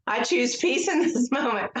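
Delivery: mantra broken by a laugh on "moment"; laughing mid-mantra. Shown as a demonstration. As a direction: crack up halfway through the line. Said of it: "I'm on K twenty-seven".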